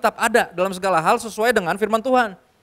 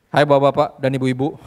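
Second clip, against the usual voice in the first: village head greeting; 6 semitones lower than usual. Retold or imitated. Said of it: "Itu sambutan Pak Lurah itu".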